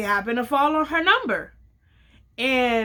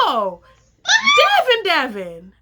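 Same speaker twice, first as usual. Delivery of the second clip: laughing it out, drawn slow; amused laugh over the name, slowly; a mock-exasperated laughing call; 7 semitones higher, 6 dB louder, slower than usual. Friend laughs at the mix-up.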